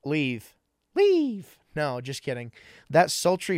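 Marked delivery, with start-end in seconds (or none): 0.9-1.6 high, loud barked order; sudden shout. Pretend. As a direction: yell it suddenly, mock-angry. Mock throwing guests out.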